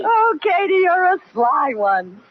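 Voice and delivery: self-praise. Acted. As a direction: tease herself with a sly lilt. Katie praises herself.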